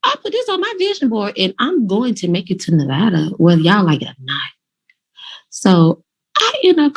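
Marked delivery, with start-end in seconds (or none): 0.0-4.5 pitched much higher, fast and worked-up; exasperated outburst. Retold or imitated. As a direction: replay the moment you snapped with frustration. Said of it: "So I'm like".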